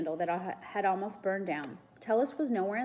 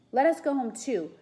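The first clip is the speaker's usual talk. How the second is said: raised, pleading cry; shaky cry; 6 semitones higher, 9 dB louder than usual. A narrator's reading. Frightened boy asking to leave, shaky cry. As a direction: plead loudly to be let go. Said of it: "cried in a shaky voice".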